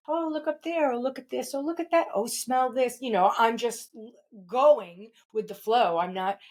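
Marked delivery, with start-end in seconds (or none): 0.1-3.0 delighted wandering. Retold or imitated. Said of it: "natural for me to be like".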